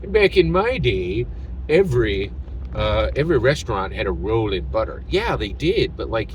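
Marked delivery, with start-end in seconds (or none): 0.1-5.0 lightly voiced old man grumbling about the good old days; grumpy old man. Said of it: "this useless old man energy".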